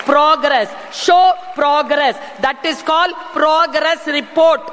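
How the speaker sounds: progress stretched word by word; slow drilled phrase. Shown as a demonstration. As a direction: spell out progress report slowly. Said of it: "drilling the word progress". (மெதுவாக அழுத்திச் சொல்லுதல்)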